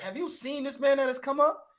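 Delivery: high, laughing King James reading; mock scripture voice. Mocking the formal Bible line before translating it. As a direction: read the old line while cracking up. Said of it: "That's what they saying".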